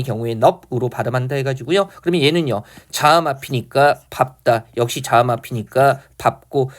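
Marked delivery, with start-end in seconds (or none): 4.1-4.7 밥다 said as bap-tta; standard pronunciation demo. Shown as a demonstration. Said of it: "자음 앞에서 밥으로". 6.2-6.7 밥고 said as bap-kko; standard pronunciation demo. Shown as a demonstration. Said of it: "자음 앞에서 밥으로".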